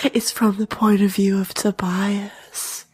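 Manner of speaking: unvoiced close whisper; ASMR whisper. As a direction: whisper right into the mic. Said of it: "A S M R".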